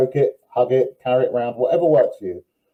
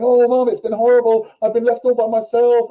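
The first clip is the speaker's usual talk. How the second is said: much higher, put-on pitiful dog voice; whiny dog voice; 11 semitones higher, 4 dB louder than usual. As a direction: voice the dog moaning to its owner.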